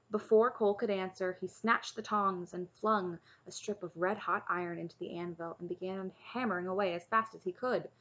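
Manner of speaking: measured storybook reading; story narration. A narrator's reading. Reader reading a chapter book to listeners, story narration. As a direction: read the tale aloud evenly.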